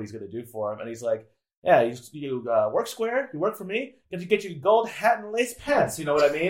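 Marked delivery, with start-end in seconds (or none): 1.6-6.0 1930s transatlantic mobster voice, pitched higher; old Hollywood gangster accent, raised pitch; old movie mobster. Retold or imitated. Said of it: "the mobster is telling Scarface".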